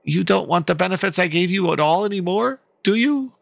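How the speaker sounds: put-on high, pleading young woman; character voice. A hurt companion asking Lamia if she's quitting, high and pleading.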